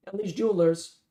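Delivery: put-on Boston accent. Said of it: "an unforgiving Boston accent".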